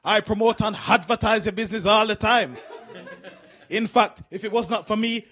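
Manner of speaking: pleading haggler, pushing for a deal; dad's bargaining speech. Retold or imitated. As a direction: wheedle the shopkeeper like a bargain-hunting dad. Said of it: "He's got this speech he does all the time".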